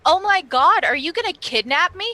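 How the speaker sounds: high, loud fake panic; loud mock alarm. Player shouting to the constables in fake panic. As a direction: cry it out for the whole room to hear. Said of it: "she says, like, really loudly".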